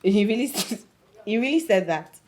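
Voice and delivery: amused disbelief breaking into laughter; laughing. Acted. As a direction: start the question, crack up, try it over. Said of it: "I'm sorry, I'm laughing".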